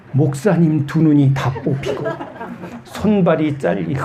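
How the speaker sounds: talking through real laughter; laughing. Real, not acted. Preacher joking to congregation about literal reading, laughing. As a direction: let laughter break into the words.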